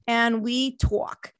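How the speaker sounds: slow, drawn-out Jersey accent. Shown as a demonstration. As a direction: say it like a New Jersey local. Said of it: "That's my Jersey accent".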